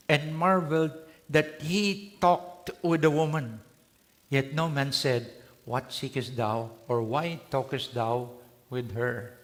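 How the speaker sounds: slow, measured Bible reading voice; scripture reading. Acted. Preacher reads John to the congregation, slow and solemn. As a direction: read the verse slowly and solemnly.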